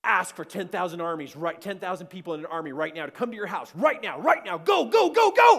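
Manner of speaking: building from loud orders to a full high shout; urgent commanding voice. Retold or imitated. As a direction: bark urgent battle orders, rising to a scream. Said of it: "this voice goes".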